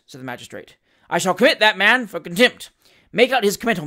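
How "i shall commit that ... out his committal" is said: loud, furious bullying; bully him in fury. Acted. Magistrate sentencing angrily.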